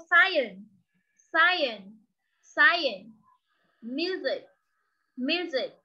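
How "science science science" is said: science said in one clean go, no extra vowel; modelled science. Shown as a demonstration. Teacher drilling science correctly for the class. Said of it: "đọc là science luôn cho cô".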